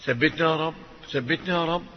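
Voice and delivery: hushed plea to God; soft prayer. Real, not acted. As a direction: whisper it up to heaven. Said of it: "quiet prayer".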